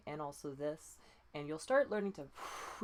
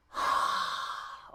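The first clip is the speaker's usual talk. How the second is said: forceful unvoiced exhale; breath out; 5 dB louder than usual. Shown as a demonstration. Coach showing the breath push to the student. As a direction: push the air out hard. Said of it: "we'll do it one at a time".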